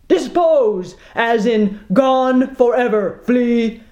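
captain loses patience with mate; angry shout. Acted. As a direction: spit each word. Captain snaps angrily.

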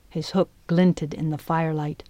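plain reading voice

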